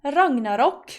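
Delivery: Ragnarok with short o, lilting up at the end; Norwegian pronunciation. Shown as a demonstration. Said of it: "in Norwegian it's".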